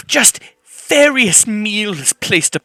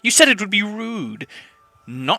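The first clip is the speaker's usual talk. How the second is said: imp servant voice. Acted.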